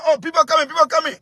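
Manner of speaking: hammed-up fearful cry of people coming; mock panicked cry. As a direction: mimic the scared night cries. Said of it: "tell people".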